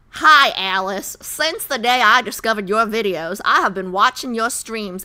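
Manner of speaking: lightly put-on Southern accent. Streamer reading a fan's birthday message, light Southern accent. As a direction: read it out with a touch of Southern. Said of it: "Anna, are you Southern?".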